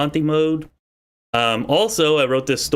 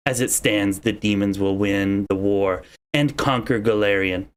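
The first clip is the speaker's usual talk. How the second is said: goddess voice. Acted. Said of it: "not a very good female voice, uh, or goddess voice".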